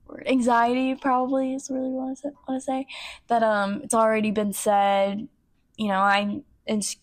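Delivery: halting, with false starts; stumbling. Real, not acted. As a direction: stammer while searching for the words. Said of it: "sorry, I'm stuttering".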